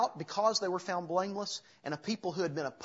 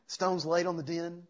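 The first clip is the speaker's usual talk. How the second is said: laughs at his own slip, a bit louder; chuckle, then correct yourself to den; amused laugh; 3 dB louder than usual. Real, not acted. Preacher laughing at his own slip to the congregation. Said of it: "I keep wanting to say the tomb".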